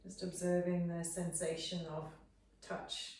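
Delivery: measured Yoga Nidra guidance with long pauses between phrases; guided meditation. Real, not acted. Teacher settling students into Shavasana, unhurried guided meditation. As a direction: guide them gently into rest, phrase by phrase.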